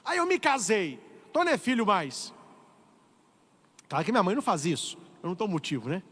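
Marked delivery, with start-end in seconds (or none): 0.0-2.3 put-on higher, protesting adult child brushing off mom; whiny teenager. Priest mimics grown children dismissing their mother, mock whiny protest. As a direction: play the grown kid talking back, a bit higher. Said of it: "Não tem independência de".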